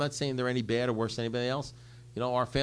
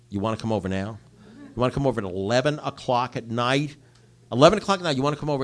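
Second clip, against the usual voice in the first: louder, rising shout of disbelief into the phone; incredulous yelling; 2 semitones higher, 10 dB louder than usual. Retold or imitated. Retelling how he shouted at his brother on the phone, indignant yell. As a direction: bark it back like you can't believe the nerve. Retold late-night phone quarrel.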